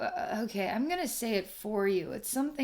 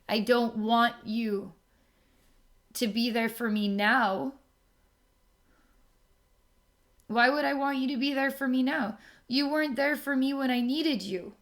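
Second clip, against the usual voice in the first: hurt angry outburst; 3 semitones higher, 4 dB louder than usual. Retold or imitated. To everyone who was not there, a hurt voice rising to a shout. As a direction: let the hurt climb until it bursts out. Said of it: "And then you're saying".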